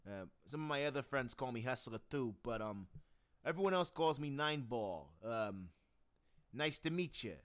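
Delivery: brash friendly mobster; Eight Ball voice. Shown as a demonstration. Improvising as Eight Ball, brash and friendly. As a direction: talk like a chummy hustler. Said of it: "I have fun with that voice".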